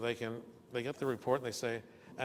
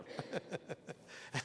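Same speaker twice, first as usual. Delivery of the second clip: soft cackle; 6 semitones higher, 7 dB quieter than usual. Retold or imitated. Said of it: "And he starts laughing".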